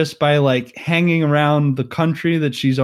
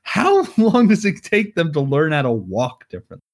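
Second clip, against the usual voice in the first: mock exasperation; 4 semitones higher than usual. Viewer fed up with a long walking scene, mock exasperated. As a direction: complain as if it will never end.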